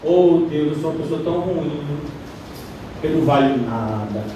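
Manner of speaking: low, softening voice of a penitent; mock confession. Preacher imitates how people confess sin to God, mock-humble confession. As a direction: put on a lowly, self-abasing prayer voice. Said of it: "como é que a gente confessa pecado".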